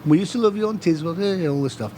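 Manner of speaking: chatty Carlisle local, imitated; Carlisle accent. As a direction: gush along in a put-on Carlisle accent. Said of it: "slipped into my Carlisle accent".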